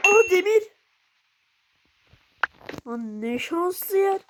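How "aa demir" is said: louder, higher happy cry; excited cry. Real, not acted. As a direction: exclaim the find with delight. Sudden find of iron. (heyecanlı bağırış)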